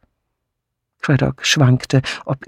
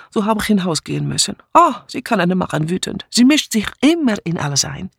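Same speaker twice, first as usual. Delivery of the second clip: higher, jumpy, insistent broken German; agitated refugee maid; 6 semitones higher than usual. Acted. Mitzi insisting to the inspector, agitated and defiant. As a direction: pour out the accusation, wounded.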